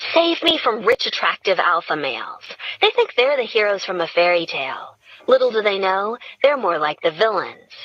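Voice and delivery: mock indignation about the boxes; lightly voiced Gretchen.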